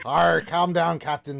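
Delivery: mock pirate telling off a shipmate. Host calming a flirty Captain T, mock pirate.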